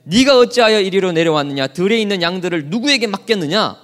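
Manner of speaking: a mild angry big brother scolding; understated angry older brother; angry rebuke. Acted. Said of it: "노를 바라여 이르되".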